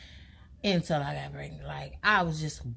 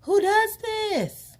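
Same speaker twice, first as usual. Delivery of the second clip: shocked outcry; 9 semitones higher, much slower than usual. Retold or imitated. Reacting to the test, a slow high outcry. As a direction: drag out the disbelief.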